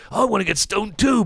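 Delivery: high-pitched imitation of pleading to join in; quoting own temptation. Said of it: "and I was like".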